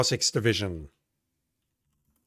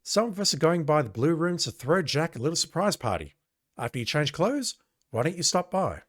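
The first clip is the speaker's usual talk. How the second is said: higher, cheerful invite; lightly voiced friendly cop; friendly coworker; 4 semitones higher than usual. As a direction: invite Sonny along warmly. Coworker invites Sonny to party.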